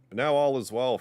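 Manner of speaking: high, loud relieved joy; old man lifting up in sudden joy; joyful old man. Acted. Old man rejoices at return.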